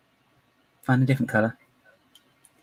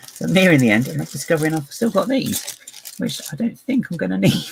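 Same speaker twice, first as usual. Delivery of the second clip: higher, laughing through the words; amused laughing; 7 semitones higher, 4 dB louder than usual. Real, not acted. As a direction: talk through real giggles. Laughing at finding leftover pieces.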